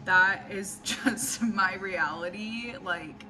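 soft, slowing, dejected voice; sad and defeated. Real, not acted. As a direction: sound crushed and worn out. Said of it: "feel so sad and defeated".

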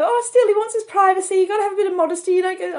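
imitating a prim mother; mock mother lecturing on modesty. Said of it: "she's going".

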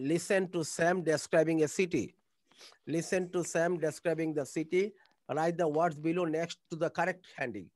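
slow, clear read-aloud; slow reading of instructions. Shown as a demonstration. Teacher reading textbook task to class, slowly. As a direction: read each word out slowly. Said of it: "reading book instructions".

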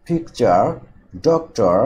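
পিকচার, ডক্টর, each front-stressed; first-syllable stress. Shown as a demonstration. Teacher listing noun examples, first-syllable stress on পিকচার and ডক্টর. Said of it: "stress হবে প্রথম সিলেবলের উপর".

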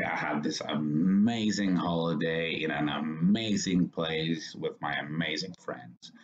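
slow whispery demo stressing amazing. Shown as a demonstration. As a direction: hit every amazing. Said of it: "Stress the word amazing".

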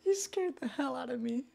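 startled. Real, not acted. Startled by a sudden creature.

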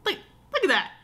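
1 excited laugh. Real, not acted. Ring finally on finger.

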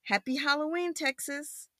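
high, soft, flowing read; storybook farewell. A narrator's reading. Spaceship's farewell to Texas, softly sung-out greeting. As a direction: say it as one gentle phrase. Reads the line, then prompts child.

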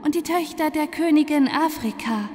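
bright high ringing voice. Acted. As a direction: ring out like sunlight. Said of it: "sprach mit klingender Stimme".

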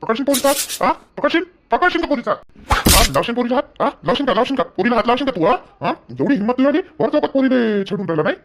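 mocking, rising repeated questions; angry interrogation. Cop taunts the harasser in front of the girl, angry. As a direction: jab each question at him.

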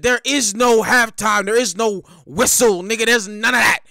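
emphatic, loud challenge building to the end; hyped mock taunting; acted relentless fighter. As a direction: fire it off like there's no letting up. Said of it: "Nigga said".

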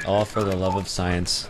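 hushed solemn whisper. Pretend. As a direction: breathe it like a secret vow. Mock solemn science toast.

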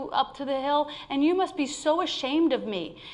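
a hint of a mortified little pot; ashamed pot. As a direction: plead like a pot embarrassed of itself. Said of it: "it finally says to her".

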